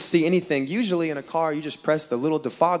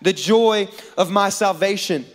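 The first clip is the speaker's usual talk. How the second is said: acted crying out; 4 semitones higher than usual. David praying to God at night, mildly yelled plea. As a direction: cry out to God, moderately raised. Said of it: "one night he yells out".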